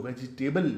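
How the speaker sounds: वेजिटेबल with a full "जि" syllable; common mispronunciation. Shown as a demonstration. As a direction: say वेजिटेबल in four beats, ve-ji-TAY-bal. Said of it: "तो भी आप गलत कर रहे हैं". (वेजिटेबल, ग़लत तलफ़ुज़ में "जि" के साथ)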